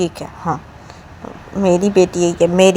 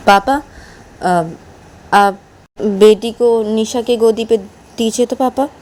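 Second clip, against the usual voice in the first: calling to papa; 4 semitones higher, 3 dB louder, slower than usual. Acted. Manisha calls to papa.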